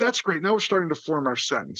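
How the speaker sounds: ordinary talk, nothing marked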